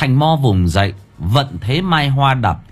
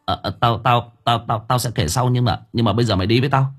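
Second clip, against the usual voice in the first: flustered stammer, words tumbling and hurried at the end; faster than usual. Acted. Thành Mo fumbling an excuse to his friend, stammering. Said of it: "Nó lắp bắp".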